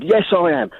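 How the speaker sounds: half-hearted retold shout. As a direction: imitate an angry man's shouted reply, lightly. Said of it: "and he shouted".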